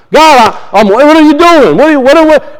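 a touch of exasperated, stumbling protest; sharp prayer. Acted. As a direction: demand answers from God, mildly sharp. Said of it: "to be sharp sometimes".

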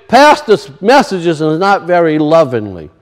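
low, soft mock grumble from a listener; mock complaint. Preacher mimicking a congregant, low grumbling complaint. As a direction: grumble it like a sulky churchgoer. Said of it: "Sometimes you might say".

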